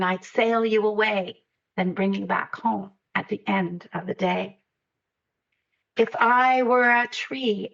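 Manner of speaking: measured, lilting picture-book reading; unhurried verse with pauses between lines; reading a poem aloud. A narrator's reading. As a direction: read it like a lullaby, savouring each rhyme. Reads own picture book aloud.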